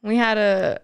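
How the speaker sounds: bleating goat impression. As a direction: bleat the word blast like a goat. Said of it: "That was my bad impersonation of a goat".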